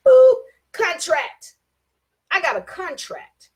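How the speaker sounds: gloating ooh rising high; drawn-out ooh. Real, not acted. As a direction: savour the word with relish. Gleeful about his contract.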